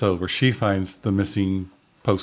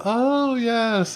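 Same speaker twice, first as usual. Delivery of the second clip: excited; 14 semitones higher than usual. Retold or imitated. Acted flirty banter between characters.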